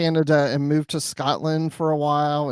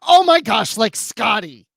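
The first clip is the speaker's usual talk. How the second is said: imitating wife's excited outburst; high, loud retold exclamation; excited yell; 5 semitones higher, 3 dB louder than usual. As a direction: blurt it out high, like an excited wife. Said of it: "she just yelled it right out".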